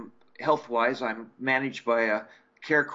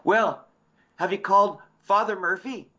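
Mrs O'Brien voice; 7 semitones higher, 4 dB louder than usual. Retold or imitated. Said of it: "And she goes".

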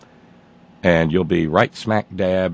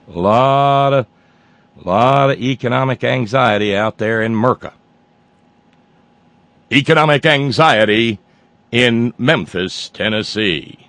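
newscaster voice; 3 semitones higher, 4 dB louder than usual. Pretend. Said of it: "let me get my newscaster voice".

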